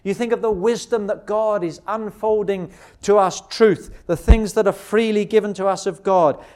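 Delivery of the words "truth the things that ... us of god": ordinary delivery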